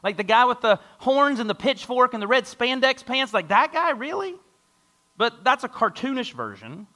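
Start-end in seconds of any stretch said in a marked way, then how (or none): 0.0-3.9 a skeptic scoffing at belief in Satan, getting louder; mocking skeptic. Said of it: "Other of us are like". 3.9-4.4 a much higher, squeaky rising "Really?" in disbelief; incredulous really. Retold or imitated. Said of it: "Other of us are like".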